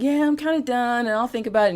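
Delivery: a half-hearted, noncommittal brush-off; lightly mocking someone who isn't really done; soft done. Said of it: "Not like soft done".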